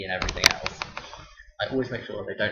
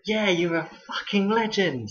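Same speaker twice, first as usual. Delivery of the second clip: much higher and louder, imitating a drunk kid; mock drunk lad gushing, pitched up; drunk pupil; 11 semitones higher, 6 dB louder, slower than usual. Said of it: "He was like".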